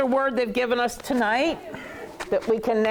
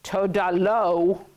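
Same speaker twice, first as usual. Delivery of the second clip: slow, firm fed-up refusal; weary but final brush-off; tired of it; much slower than usual. Acted. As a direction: draw it out, done with the haggling. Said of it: "when you get really tired of it".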